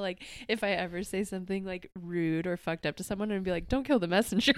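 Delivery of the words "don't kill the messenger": sassy catchphrase. Pretend. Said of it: "my favorite thing now".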